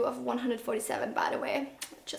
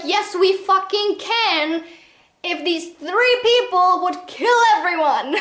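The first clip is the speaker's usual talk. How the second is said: slow, emphatic, louder fed-up answer; exasperated retort; 4 semitones higher, 4 dB louder than usual. Retold or imitated. The reviewer answering Katie in her head, slow and exasperated. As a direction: spell it out, fed up. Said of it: "And I'm like".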